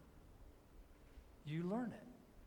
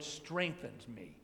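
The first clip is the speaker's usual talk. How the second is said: "strengthens me" drawn out slowly and lower, leaning on "strengthens"; stress on strengthens; 6 semitones lower, slower than usual. Shown as a demonstration. Preacher showing how people usually stress the verse, slow emphasis on "strengthens". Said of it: "We emphasize the word".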